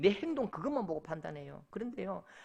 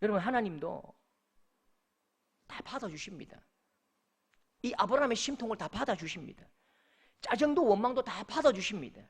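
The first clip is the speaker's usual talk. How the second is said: ordinary talk, nothing marked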